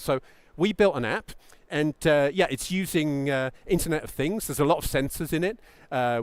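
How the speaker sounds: hesitant, hedging, full of uhs and ums; a founder fumbling a tech-heavy pitch, hesitant; mock rambling tech pitch. Shown as a demonstration. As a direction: ramble through the jargon like an unsure founder. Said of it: "Are you convinced? Probably not".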